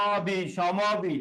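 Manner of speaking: অবি, সমবি drawn out very slowly; slow sounding out. Shown as a demonstration. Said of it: "ম এর সাথে একটা অ উচ্চারণ আছে". (ধীরে উচ্চারণ করে দেখানো)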